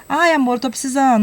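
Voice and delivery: high coaxing "ai, amor"; sweet wife plea. Retold or imitated. Wife coaxing husband for money, high and sweet. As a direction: wheedle for money like a doting wife.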